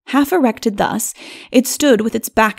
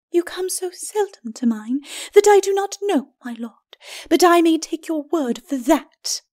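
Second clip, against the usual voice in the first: higher, cool lady's voice; dry skeleton lady; 8 semitones higher than usual. A narrator's reading. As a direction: answer him with icy dryness.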